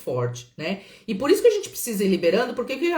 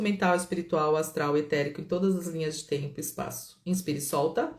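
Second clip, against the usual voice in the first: guided release invocation. Acted. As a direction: guide them through the release, softening toward the end.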